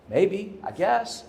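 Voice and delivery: slow, high, tentative retold reply; hesitant agreement. Employee half-accepting her manager's offer of help, hesitant.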